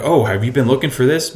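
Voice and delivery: mock the eager cold pitch; salesy pitch voice.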